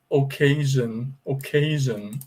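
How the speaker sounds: "occasion" as oh-KAY-zhun; English pronunciation demo. Shown as a demonstration. Teacher pointing out the A in occasion, English pronunciation demo. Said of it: "Aqui tem o A".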